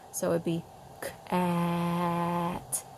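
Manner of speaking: "k-at" blended slowly without a break; "k-at" stretched out with no gap; smooth k-at. Shown as a demonstration. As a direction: glide the k into "at" slowly. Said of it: "There's not that break".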